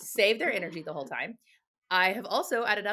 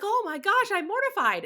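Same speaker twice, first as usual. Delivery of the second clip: shocked guest; 13 semitones higher, 7 dB louder than usual. Retold or imitated. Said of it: "they're like".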